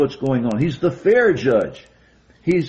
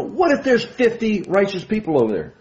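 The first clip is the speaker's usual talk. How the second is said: pleading Abraham; 8 semitones higher than usual. Retold or imitated. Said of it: "you know".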